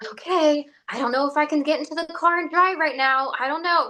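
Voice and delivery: anxious self-talk. Retold or imitated. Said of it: "your anxious mode".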